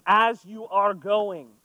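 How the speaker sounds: "as you are going" drawn out, weight on "as"; slow down and lean on "as"; stressed rereading. Shown as a demonstration. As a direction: explain the Greek with slow emphasis. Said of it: "but it is".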